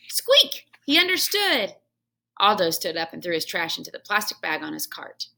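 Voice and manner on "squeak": very high single squeak; hamster squeak. Acted. Hamster answering the janitor. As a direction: squeak yes.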